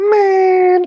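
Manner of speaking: man stretched out, very high, loud and shrill. Showing an impression of an audition for Rush Hour: Chris Tucker impression. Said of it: "That's the Chris Tucker impression".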